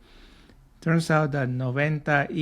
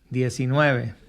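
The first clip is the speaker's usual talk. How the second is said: diecinueve run together as one quick word; faster joined form; 4 dB louder than usual. Shown as a demonstration. Teacher shows the quick joined form diecinueve. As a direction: blend it all into diecinueve. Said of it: "a little bit faster by saying".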